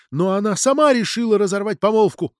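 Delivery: high-pitched defensive protest; heated retort. A narrator's reading. Mironova defends the affair to Natalia, heated retort. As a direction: argue back hotly. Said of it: "запальчиво вскрикнула Миронова".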